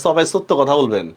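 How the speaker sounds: imitating Dhaka speech with s for sh; Dhaka-style dental s in সবাই and সত্য; Dhaka accent. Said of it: "ঢাকায় এরা কয়".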